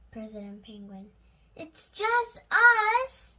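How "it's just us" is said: high, loud, slow yell from afar. A narrator's reading. Young Clancy calling down from the spaceship, loud slow yell. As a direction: call it down from the spaceship. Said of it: "yelling the young Clancy".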